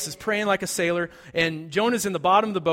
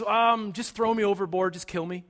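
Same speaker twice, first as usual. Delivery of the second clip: weary resignation. Retold or imitated. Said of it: "He refuses to pray. He says".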